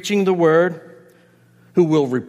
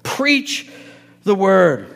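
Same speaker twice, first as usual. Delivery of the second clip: high, loud back and forth, objections raised and answered; preaching at full force, each reply slowed and punched; impassioned exhortation; 6 semitones higher, 4 dB louder than usual. Retold or imitated. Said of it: "pulled Timothy up by his shirt and said".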